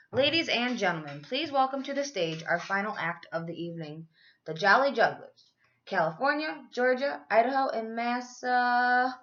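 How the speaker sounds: showman's welcome building up; announcer. Acted. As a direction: introduce the act to the crowd. Announcer introducing final act.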